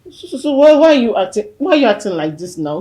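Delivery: growing alarm. Acted. Daughter to mother who will not wake, alarmed. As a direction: question her in rising panic.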